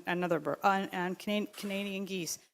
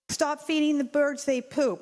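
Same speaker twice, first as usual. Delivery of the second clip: mild mock yell, a little higher; imitating an angry driver, half-hearted; retold yell; 5 semitones higher, 4 dB louder than usual. Woman in her car yelling at the pigeon feeder, mild mock yell. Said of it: "starts yelling at me".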